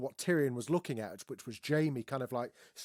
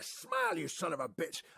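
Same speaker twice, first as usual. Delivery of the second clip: Brody quote; 2 semitones higher than usual. Retold or imitated. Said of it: "And he's like".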